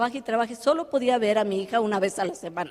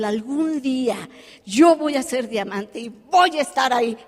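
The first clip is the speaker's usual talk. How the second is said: a mild mock shout of a bold vow; declaring it to the room, only slightly raised; shouting her vow at the convention, lightly acted; retold shout. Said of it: "empiezo a gritar en español".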